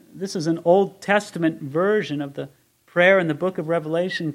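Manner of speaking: ordinary talk, nothing marked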